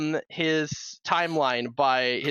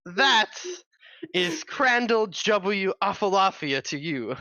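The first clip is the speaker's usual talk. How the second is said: hammed British accent, lightly done; grand British wizard correcting someone; put-on British accent. Wizard correcting the game master on his name, lightly put-on British accent. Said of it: "trying to do this accent".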